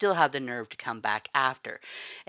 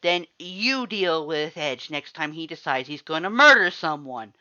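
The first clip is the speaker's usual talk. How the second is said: louder, higher bitter retort; snarling; 5 semitones higher, 9 dB louder than usual. A narrator's reading. Sans snarls before vanishing. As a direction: throw the last word back. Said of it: "Sans snarled".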